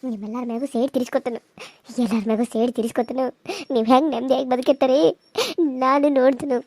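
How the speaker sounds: tearful, bitter accusation; ದುಃಖದ ಕೋಪ; bitter grief. Acted. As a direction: vow revenge through tears. Grieving daughter accuses the family.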